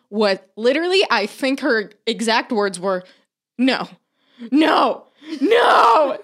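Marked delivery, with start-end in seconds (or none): 3.6-6.2 mock devastation building to a high, loud cry; devastated. Retelling mother-in-law learning of the prank, devastated wail. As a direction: imitate escalating denial, each no higher and louder. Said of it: "She was devastated".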